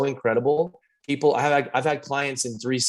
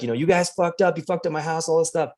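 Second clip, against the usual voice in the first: higher-pitched mock complaint, no real shouting; mild imitation of an angry rant; retold upset yelling; 5 semitones higher than usual. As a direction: imitate an upset client without raising volume. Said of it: "yelling and screaming and up, super upset".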